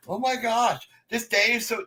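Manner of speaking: high, panicky mock fluster; mocking frazzled coworker. Mimicking stressed coworkers at work, high panicky whine. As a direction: imitate a stressed coworker losing it. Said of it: "everybody's like".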